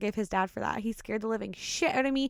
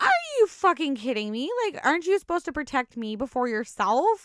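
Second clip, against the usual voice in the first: retold, mildly outraged telling-off; indignant retort; 2 semitones higher than usual. Wife scolding husband for saving himself first, indignant. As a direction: replay an incredulous scolding, pushed at the start.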